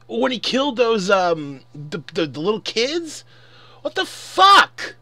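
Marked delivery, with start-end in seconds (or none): 3.8-5.0 much higher and louder, slow; real outraged shout. Real, not acted. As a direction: let the disbelief explode, drawn out. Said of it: "I know I sound mad because I am mad".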